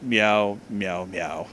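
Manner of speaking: low, fading meows trailing to near silence; soft meows. Acted. Ford lulling Mabel to sleep, low fading meows. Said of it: "he stammered".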